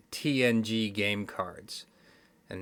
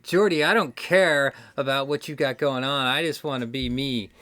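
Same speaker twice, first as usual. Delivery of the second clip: mock sullen outburst, a bit louder; sullen Wesley; 2 semitones higher, 5 dB louder than usual. Host mimics Wesley protesting to Geordi, mock sullen. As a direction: imitate a sulky kid protesting loudly. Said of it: "he's all sullen and he's like".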